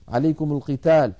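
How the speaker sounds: "عليكم القتال" linked as "alaykumu-l-qital"; damma on mim. Shown as a demonstration. Teacher recapping the rule, "عليكم القتال" joined with damma. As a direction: join عليكم to القتال through a u-vowel. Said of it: "حرك بالضم لأنها ميم جمع".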